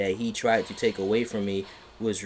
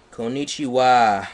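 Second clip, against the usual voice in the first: Chappelle impression; 6 dB louder than usual. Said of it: "quoting Chappelle Show".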